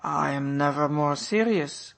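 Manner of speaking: lightly voiced baron, earnest; Baron's retort. A narrator's reading. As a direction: insist on it gravely. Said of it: "retorted the Baron".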